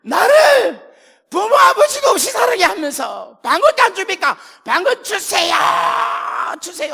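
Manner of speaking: high, loud, crying demand to God; desperate pleading shout. Retold or imitated. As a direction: beg and shout at God for tongues. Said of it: "제가 어떻게 기도하는 거예요". (하나님께 방언 달라고 울부짖는 외침)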